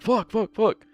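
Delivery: high pitched fuck fuck fuck; frustrated cursing. Pretend. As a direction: spit out the curses in frustration. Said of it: "you're just kinda more like".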